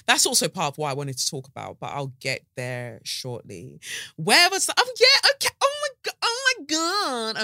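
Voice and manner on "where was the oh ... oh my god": high squealing panic over something lost; startled panic. Real, not acted. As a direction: shriek in sudden alarm.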